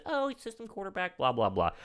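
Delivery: high, soft mocking quote falling away; mock laughing dismissal. Retelling a rival player's jab at the quarterback, softly mocking. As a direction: toss it off as a lightly mocking imitation. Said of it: "went ahead and laughed and said".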